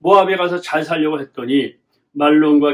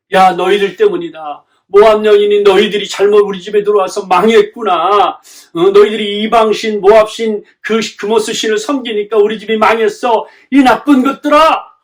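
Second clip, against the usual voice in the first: loud acted scolding, building higher at the end; resentful blaming; 4 semitones higher, 6 dB louder than usual. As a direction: berate them as a bitter mother-in-law would. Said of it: "망했다고 원망하는 것이 아니라". (원망하며 큰 소리로 꾸짖는 연기)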